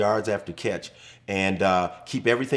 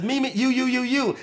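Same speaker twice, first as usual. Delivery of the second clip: much higher, flustered switch from me to you; hammed-up panic as the ball changes course; confused frantic call; 13 semitones higher than usual. Teammate switching call as ball hooks.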